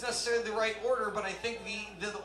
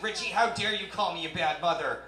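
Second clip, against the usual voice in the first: angry mom; 3 dB louder than usual. Retold or imitated. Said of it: "She came in all pissed off".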